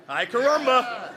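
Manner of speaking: Ay caramba slowed, breaking into a laugh; can't keep a straight face on Ay caramba; laughing through it. Shown as a demonstration. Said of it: "Ruined it, see?".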